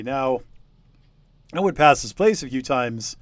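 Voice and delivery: a hint of a chatty old villager spinning a yarn; old local villager. Game master voicing old villager telling the investigators, lightly voiced.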